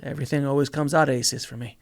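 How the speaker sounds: bright, confident affirmation; upbeat. Shown as a demonstration. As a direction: say it like you believe it. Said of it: "a completely different energy".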